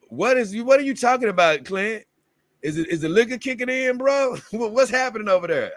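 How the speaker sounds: what on earth are you saying, bro; incredulous disbelief. Real, not acted. Baffled by Clint's comment.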